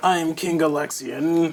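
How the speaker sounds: very slow, strained, constipated-sounding put-on voice. Announcing a game character, King Alexian: imitating Bear's voice. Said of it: "I'm just gonna try to mimic Bear's voice".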